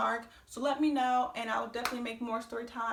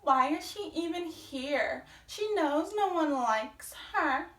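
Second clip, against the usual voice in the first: higher, drawn-out griping; mock complaint; 4 semitones higher, slower than usual. Scrappy complaining about the storyteller turning up, mock complaint. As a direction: imitate a catty onlooker, slowly. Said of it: "she was talking about".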